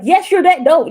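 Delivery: high, loud, gushing praise; excited therapist. Retold or imitated. Therapist praising her client, high and excited. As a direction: burst out with delight at her. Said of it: "she got excited".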